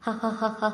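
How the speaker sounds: acted open laugh; laughing out loud. A narrator's reading. Seetha-like young in-law laughs at the tuition fee offer, laughing. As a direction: give a mock laugh in character. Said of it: "சத்தம் போட்டு சிரிக்க ஆரம்பிக்க".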